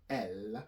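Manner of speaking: "L" said as "ell" with a clear held l; L sound. Shown as a demonstration. Teacher demonstrates a straightforward sound, L sound. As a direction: say "L" as the French letter name. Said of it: "that's the sound L".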